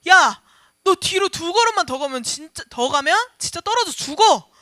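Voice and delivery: sharp loud yell, 걸음만 pushed up urgently; urgent angry warning. Acted. Preacher shouts at a friend about to fall off a cliff. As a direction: shout to stop someone backing off a cliff. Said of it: "라고 할 때 화를 내는 거예요".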